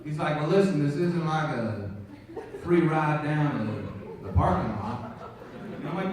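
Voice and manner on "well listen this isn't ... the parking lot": a hint of an easygoing movie-star impression; Matthew McConaughey. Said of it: "Matthew McConaughey's like".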